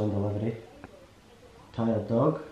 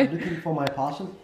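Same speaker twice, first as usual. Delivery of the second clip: put-on higher-pitched Blood Diamond accent; 5 semitones higher than usual. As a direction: try a film-style Blood Diamond accent. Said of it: "Blood Diamond".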